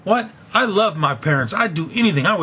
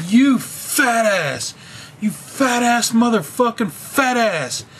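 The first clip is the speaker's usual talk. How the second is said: slow, higher, sneering insult drawn out; imitating the boss hurling slow, higher-pitched insults; mock boss insult; 3 semitones higher, slower than usual. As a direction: drag out the insult like a mocking boss. Boss insulting him, retold.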